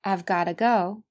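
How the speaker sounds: "I've" contracted, "gotta" linked with a flapped t; weak-form gotta. Shown as a demonstration. Teacher models the four pronunciations, weak form. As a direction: run "gotta" together after "I've". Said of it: "看一下这四句的发音".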